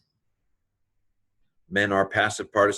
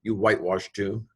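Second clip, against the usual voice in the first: laughing. Real, not acted. Laughing while reading the insult.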